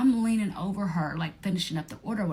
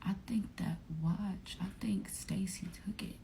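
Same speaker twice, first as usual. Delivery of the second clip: texting a suspicion, whispered; secret whisper; 8 dB quieter than usual. Retold or imitated. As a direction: hush it like gossip. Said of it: "texting Chanel".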